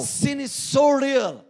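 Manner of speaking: slow, ringing call of "so real"; preaching declaration. Acted. Preacher warning listeners about sin, slow emphatic call. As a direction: lean hard on each word.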